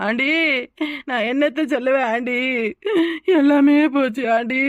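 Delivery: half-faked tears to win sympathy; crying lament. Daughter-in-law wailing to the aunt about her mother, mildly tearful. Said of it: "ஏன் இப்படி அழுதுகிட்டு நிக்கிற?".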